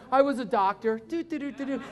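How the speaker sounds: imitated cab driver, casually offhand; mock-casual driver; nonchalant. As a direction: toss it off and hum along, unbothered. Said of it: "He was just real nonchalant about it".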